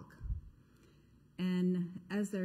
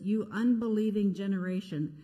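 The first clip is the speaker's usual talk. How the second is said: exasperated rebuke, louder; upset; 5 dB louder than usual. Acted. Jesus rebuking the faithless crowd, exasperated loud rebuke. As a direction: scold the crowd, then command. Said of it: "Jesus is upset as well".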